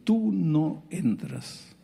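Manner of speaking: slow, cold and final; cold verdict. Retold or imitated. Someone barring the woman from church, slow and cold. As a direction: lay down the ban slowly. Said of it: "se sintió con el derecho de decir".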